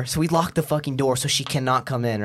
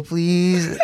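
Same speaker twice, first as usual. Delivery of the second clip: laughing plea. Real, not acted. Begging while laughing.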